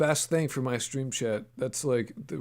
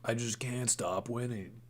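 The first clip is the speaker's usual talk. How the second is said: quiet; 8 dB quieter than usual. Real, not acted. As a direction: mutter the boast under the breath. Same boast, said much softer.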